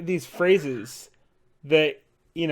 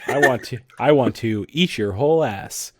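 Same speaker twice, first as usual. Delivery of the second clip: sexy podcast man voice; 3 semitones lower, 3 dB louder than usual. Pretend. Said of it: "sexy podcast man voice saying he'll eat your ass".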